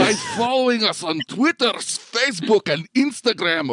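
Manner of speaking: high, bright announcer read. Pretend. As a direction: play the silly radio host. Outro continues in put-on voice.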